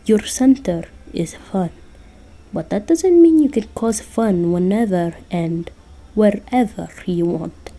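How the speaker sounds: put-on lightly accented Russian Santa, scolding; bad Russian accent. Santa scolding Jack about his fairy tales, bad Russian accent. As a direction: lecture in a rough Russian accent. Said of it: "I'm terrible at doing a Russian accent".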